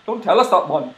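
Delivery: lively, punchy character read; Drippy. Acted. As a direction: drop the granny voice and say it forcefully. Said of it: "that's drippy".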